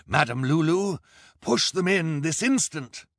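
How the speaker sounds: high, loud villain's command; terrible commanding voice. A narrator's reading. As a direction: shout an impatient order. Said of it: "ordered in a terrible voice".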